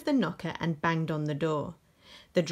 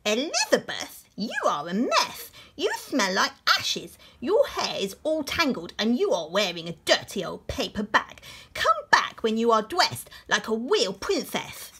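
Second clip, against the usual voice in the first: a touch higher, lightly voiced snob; snooty prince; 3 semitones higher, 3 dB louder than usual. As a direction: look down on her, lightly voiced. Prince scolds Elizabeth.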